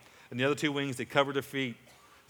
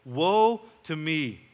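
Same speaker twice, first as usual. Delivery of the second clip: slow, drawn-out louder cry of "Woe to me"; Isaiah's cry; 6 dB louder, much slower than usual. Retold or imitated. Preacher voicing Isaiah at the throne, slow louder cry. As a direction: stretch it out like a man undone before God. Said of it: "That's what he cried out".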